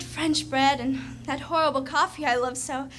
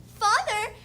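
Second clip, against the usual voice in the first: a lightly raised call of Father; half-playful retold yell, a touch higher; mock yell; 5 semitones higher, 3 dB louder than usual. Sabrina reenacting calling to her father, mild mock yell.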